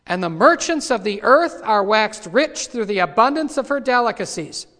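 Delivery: loud scripture proclamation; forceful scripture reading. Real, not acted. Preacher reading of the merchants of the earth, in loud proclamation. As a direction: read the verse out forcefully.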